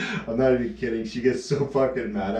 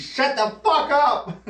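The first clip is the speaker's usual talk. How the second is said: higher, slow, furious retort; mock angry snap; 13 semitones higher, slower than usual. Girlfriend snapping at him over his joke, mock angry. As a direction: bite his head off, slowly. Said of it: "She gets so mad at me".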